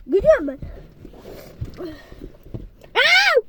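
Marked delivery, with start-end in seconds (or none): 2.9-3.3 high, loud startled Aa!; surprised gasp. Real, not acted. Streamer startled by something on stream, surprised gasp. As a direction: jump at something sudden.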